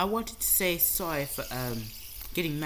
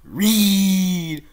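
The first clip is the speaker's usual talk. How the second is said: repeated louder and higher each time; insistent commands; 5 semitones higher, 15 dB louder, much slower than usual. Real, not acted. To a partner who forgot her line, loud insistent orders. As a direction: bark the order at a stuck partner. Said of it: "Read so you can see".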